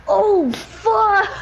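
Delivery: high, laughing oh fuck; sudden realization. Retold or imitated. Realizing the dirt in the water, high laughing curse. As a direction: blurt it as it clicks. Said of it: "I'm like".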